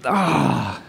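drawn-out acted sigh; frustrated groan. Imitating father hearing God's answer, frustrated groan. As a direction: let out an exasperated "ah". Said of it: "Chris is just like".

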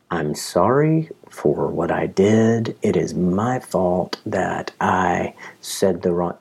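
slow, flat monotone robot voice. Retold or imitated. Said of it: "I take all emotion and tone out of my voice".

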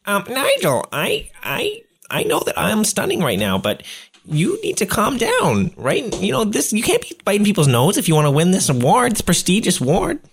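calm him down sweetly; lightly voiced vain peacemaker; peacemaker plea. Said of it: "I'm like".

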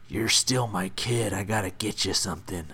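a hint of a gentle mom. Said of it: "that's just my mom voice".

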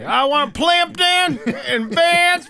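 high, slow, squeaky cartoon voice; Vince the Plumber voice. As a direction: stretch it out in a silly squeak. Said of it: "that's what Vince the Plumber sounds like".

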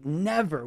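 "Never." with firm falling stress; emphatic never. Retold or imitated. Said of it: "He says emphatically".

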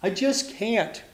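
lightly acted storybook despair; mock tearful. A narrator's reading. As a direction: drag it out as if giving up. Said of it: "she cried".

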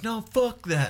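high-pitched retold protest; mock defiant refusal. Drunk friend to police officer, mock defiance. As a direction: imitate a friend jumping in, indignant.

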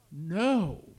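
sudden loud, emphatic no; one loud, abrupt refusal; almost shouting. A narrator's reading. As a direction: blurt it out, nearly a shout. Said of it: "She almost shouted".

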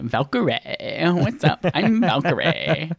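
put-on slow, drawn-out Valley girl voice. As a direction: drag out the name like a Valley girl. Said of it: "I just like saying it like that".

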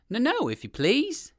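pleading rabbit. A narrator's reading. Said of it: "said the rabbit".

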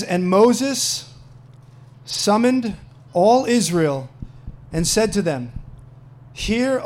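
loud, measured scripture reading; solemn public Bible reading. Acted. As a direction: proclaim the passage with deliberate pauses. Reads scripture aloud to congregation.

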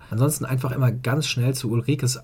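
stuffy, nasal cold voice. Real, not acted. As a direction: talk through a blocked nose from a cold. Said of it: "meine näselnde Stimme". (näselnde Stimme wegen Erkältung)

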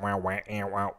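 mimicking eighties synthesizer wahs; imitated synth sounds. Co-host illustrating eighties synthetic sounds, imitated synth noises. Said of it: "those sounds like that, those synthetic sounds".

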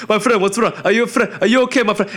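high, frantic mock Arab accent. Delivery driver to the man he hit, frantic Arab accent. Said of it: "he's some Arab dude".

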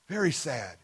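soft sad echo. Shown as a demonstration. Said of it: "walked away very sad".

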